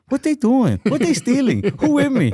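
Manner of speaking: shouting to the crowd in a mock Asian accent; Asian comedian accent. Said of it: "He's like".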